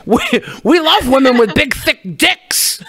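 hammed-up adoring fan quote; mock gushing fans.

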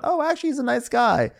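high, lilting put-on voice; imitating a pleasantly surprised thought; mock naive approval. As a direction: sound sweetly fooled. Voicing their naive earlier thought.

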